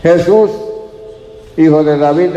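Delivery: mild retold shout; calling out. Blind man calling to Jesus in the crowd, mild shout. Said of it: "empezó a gritar".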